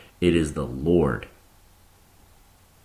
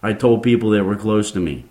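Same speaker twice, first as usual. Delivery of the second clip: fired up preaching; 4 semitones higher, 5 dB louder than usual. Real, not acted. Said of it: "I'm a little fired up about this".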